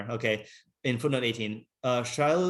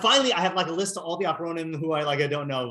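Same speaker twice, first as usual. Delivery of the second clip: excited; 4 semitones higher than usual. Retold or imitated. Reading the Haggadah's index, excitedly thinking she has every name. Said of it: "but I was like".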